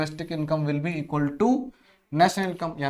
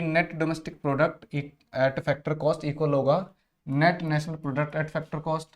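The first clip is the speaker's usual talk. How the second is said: drawn-out reading of the option; slow dictation of choices; slower than usual. Shown as a demonstration. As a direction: read each option slowly for the class.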